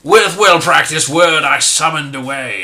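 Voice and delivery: booming, summoning the sleigh at full voice; the gnome calls his steampunk sleigh, booming loud. Acted. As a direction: call it out like a spell.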